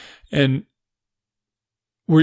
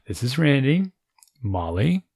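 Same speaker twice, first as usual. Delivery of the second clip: mock radio voice; 3 semitones higher than usual. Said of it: "sound like this is moron over the radio".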